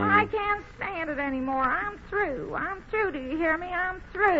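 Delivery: hammed-up tearful wail; hammed-up sobbing. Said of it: "Will you stop crying?".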